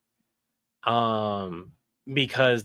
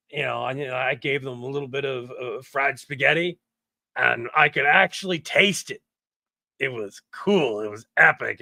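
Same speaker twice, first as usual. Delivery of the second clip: surfer dude. Shown as a demonstration. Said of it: "He sounds like a surfer dude".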